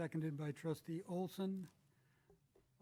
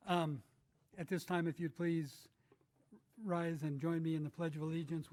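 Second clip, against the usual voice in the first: raised voice through a mask; talking louder; 4 dB louder than usual. Real, not acted. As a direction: project louder to the room. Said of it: "I'll talk louder".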